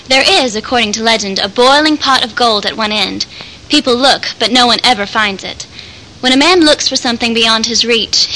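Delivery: clear, projected passage reading; reading aloud. Acted. Actor reads a rainbow passage for listeners, read-aloud delivery. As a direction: read it out formally, a little emphatic.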